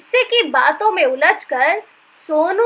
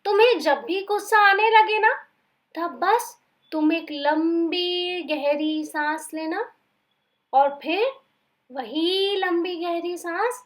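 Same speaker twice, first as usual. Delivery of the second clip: calm teaching. Acted. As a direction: guide him into calm breathing. Peace teaching breathing.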